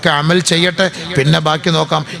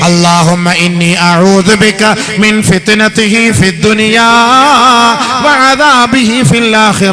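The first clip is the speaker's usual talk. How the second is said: high, loud and slow, in full sermon chant; fervent preaching; 8 semitones higher, 7 dB louder, much slower than usual. Acted. Preacher exhorting parents at a wedding gathering, loud and high. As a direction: preach it out to the hall, slow and soaring.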